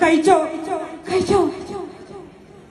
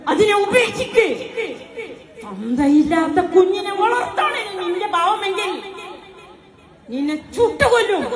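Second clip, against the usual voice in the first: angry threat; 3 semitones higher than usual. Acted. Brother threatening sister over baby.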